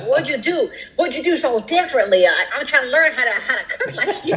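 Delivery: high, sugary teasing with a laugh; butter him up, laughing; mock flattery. Wife teasing her husband about his cooking, mock-sweet and high.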